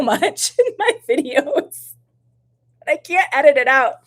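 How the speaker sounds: high, loud, laughing complaint; embarrassed laughing. Real, not acted. Streamer unable to edit out sniffles live, laughing. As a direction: laugh helplessly through the words.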